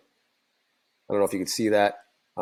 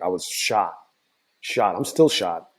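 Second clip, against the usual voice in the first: tired, worn-out hoarse voice; slower than usual. Real, not acted. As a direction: speak through a strained, hoarse voice. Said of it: "you can hear my voice".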